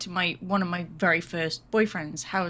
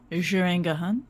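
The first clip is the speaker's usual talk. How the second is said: mocking French accent; 3 semitones lower than usual. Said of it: "you went all French there".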